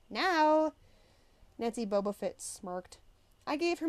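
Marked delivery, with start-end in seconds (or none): 0.1-0.7 loud, high sharp bark. Acted. Teacher barks at Percy to come, a loud high bark. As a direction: bark it as a command. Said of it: "Missus Dodds barked at me".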